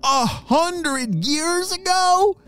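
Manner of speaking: high, slow amazed question; astonished boy. Acted. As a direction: gasp at the number. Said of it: "shouted Luca".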